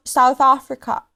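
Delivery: South African accent. Shown as a demonstration. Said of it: "you like South African?".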